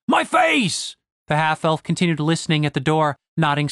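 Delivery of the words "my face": very high wail of hurt; acted cry of pain; pained shout. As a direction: wail over an injury, pitch way up. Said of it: "shouted Gareth".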